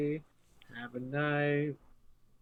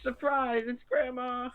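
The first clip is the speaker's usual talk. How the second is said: high excited reveal; 9 semitones higher, 4 dB louder than usual. Pretend. Grandma surprise bit.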